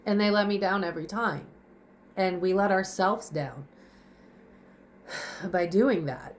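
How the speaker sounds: breathless, sighing delivery; out of breath. Real, not acted. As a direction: speak short of breath. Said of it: "out of breath".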